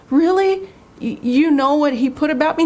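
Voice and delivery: pressing him to see the insult; indignant disbelief. Retold or imitated. Telling her pastor about the insulting ad, high indignant disbelief.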